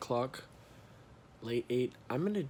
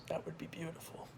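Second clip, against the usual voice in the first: whispered, dreamy; 3 semitones higher, 14 dB quieter than usual. Shown as a demonstration. Vlogger repeating his podcast dream in a whisper. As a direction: breathe it out softly like a wish. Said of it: "Oh, that would be beautiful".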